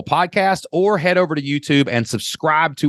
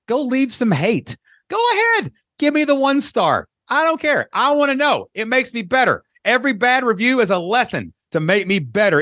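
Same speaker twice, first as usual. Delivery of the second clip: mock defiant bravado; 7 semitones higher than usual. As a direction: taunt them cheerfully, pitch way up. Inviting haters, mock bravado.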